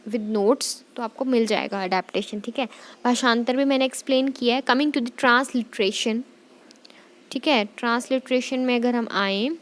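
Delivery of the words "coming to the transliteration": slow, drawn-out announcement of the next topic; slow teacher heading. Shown as a demonstration. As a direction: spell out the heading slowly.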